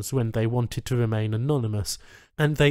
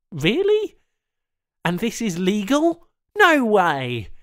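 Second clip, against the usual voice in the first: higher, louder rising protest; indignant Charl; 6 semitones higher, 5 dB louder than usual. Acted. Strapped-down Charl protests the alien techs, disbelieving and outraged. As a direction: push back in disbelief, climbing to outrage.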